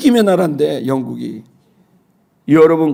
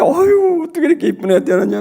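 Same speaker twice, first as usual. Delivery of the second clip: delighted gushing; 12 semitones higher, faster than usual. Retold or imitated. Father marvels at newborn daughter.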